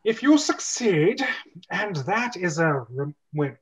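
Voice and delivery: mildly solemn wizard promise; lightly voiced wizard. Walton promising the plumbers riches, lightly grand.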